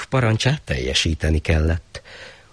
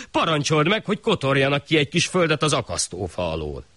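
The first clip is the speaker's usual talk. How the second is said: higher earnest suggestion; the poor man advising the shah; a hint of urgent pleading; 9 semitones higher than usual. Poor man proposes solution.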